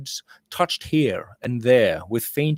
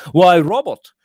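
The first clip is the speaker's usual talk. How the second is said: higher, louder glad exclamation; exclaiming; 7 semitones higher, 6 dB louder than usual. A narrator's reading. Uncle greets nephew emerging from inn, glad exclamation. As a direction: hail him warmly in surprise. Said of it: "exclaimed Michael".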